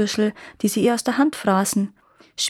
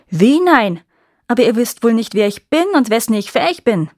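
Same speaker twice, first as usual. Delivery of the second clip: put-on louder, menacing old witch; threatening witch; 7 dB louder than usual. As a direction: snap back with a threat. Witch threatens refusing girl.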